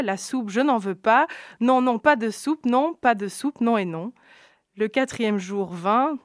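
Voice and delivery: lilting, rhythmic verse recitation; children's story reading. Acted. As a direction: read the cautionary rhyme aloud with relish. Reads a children's rhyme aloud.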